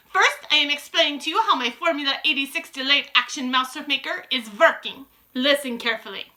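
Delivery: put-on loud, high, commanding witch with a foreign accent; Grand High Witch. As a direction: proclaim it like a grand evil queen. Grand High Witch explains formula.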